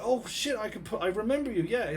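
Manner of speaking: high-pitched dawning surprise; retold sudden recognition. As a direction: act out the memory flooding back.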